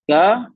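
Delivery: the letter का pushed from the throat, loud; throaty qaf demo. Shown as a demonstration. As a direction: demonstrate qaf with throat pressure. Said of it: "इसमें गले पे जोर पड़ रहा है".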